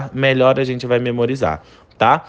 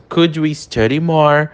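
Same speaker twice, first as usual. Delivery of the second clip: careful slow ask; slow, careful English request; slow English question; 3 semitones higher, slower than usual. Pretend. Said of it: "E aí você faz". (pergunta em inglês com calma)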